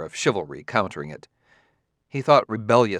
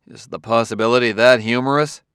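grave; 6 dB louder than usual. A narrator's reading. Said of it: "Bailey said gravely".

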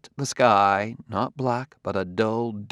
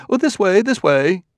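higher, louder, bright call to follow; ushering host; 11 semitones higher, 6 dB louder than usual. A narrator's reading. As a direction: usher the guest along effusively. Host ushers guest round corner.

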